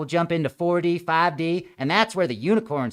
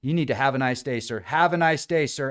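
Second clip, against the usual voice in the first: quiet, soft de-escalating voice; calm the angry guy down gently; soothing an agitated stranger quietly; 4 semitones lower, 4 dB quieter than usual. Retold or imitated. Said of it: "I'm like".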